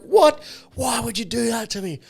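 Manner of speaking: high, upset mock protest; imitated indignant disbelief. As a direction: protest like someone cruelly tricked. Acts out upset housemate confronting her.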